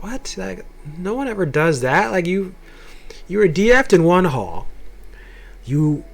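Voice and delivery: lightly acted incredulous objection; incredulous parents. Parents reacting to his wish to change halls, incredulous.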